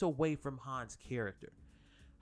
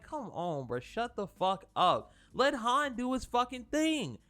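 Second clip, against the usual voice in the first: exasperated rant; 6 semitones higher than usual. Retold or imitated. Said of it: "and I was like".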